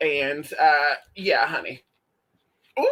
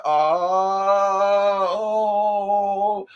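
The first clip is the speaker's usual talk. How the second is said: startled oh's; 3 semitones higher, 3 dB louder, much slower than usual. Retold or imitated. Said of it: "I said".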